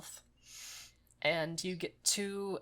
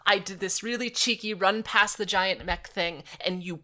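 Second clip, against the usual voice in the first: indignant rant; 3 semitones higher, 6 dB louder than usual. Real, not acted. Ranting at the game.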